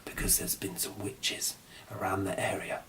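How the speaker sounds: secretive storyteller whisper. A narrator's reading. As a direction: lean in and whisper it.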